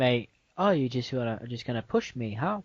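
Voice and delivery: badly faked British accent; hammy London lad, picking a fight. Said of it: "It was a terrible accent".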